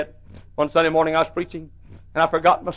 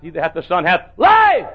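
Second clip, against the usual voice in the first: shouting verse; 2 semitones higher, 5 dB louder than usual. Retold or imitated. Pastor stuck on his verse, shouting it. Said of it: "and I said".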